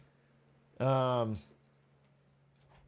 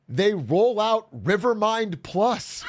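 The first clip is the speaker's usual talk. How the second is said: mock hype; 5 semitones higher, much slower than usual. Hyping the upgrade reveal.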